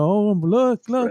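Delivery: imitating an excited simple creature; excited imitation. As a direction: act out a delighted discovery. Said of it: "and he's all excited".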